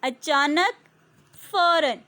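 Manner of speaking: अचानक with a rising tune, then फ़ौरन firmly with a fall; word and meaning. Shown as a demonstration. Teacher pairing a word with its meaning, rising then falling. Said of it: "अचानक का मायने होता है फ़ौरन".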